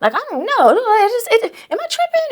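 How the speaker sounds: high, climbing questions; rising worried vent. Retold or imitated. Calling a friend from set, anxious and rising. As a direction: pitch up as the doubt grows.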